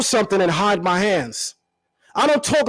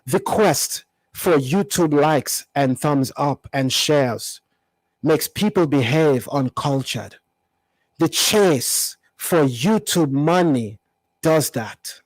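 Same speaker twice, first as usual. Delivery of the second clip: lightly put-on African accent, a bit lower and slow; his accent; 3 semitones lower, slower than usual. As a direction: read the post in a mild mock African accent. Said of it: "I'll even read it in his voice".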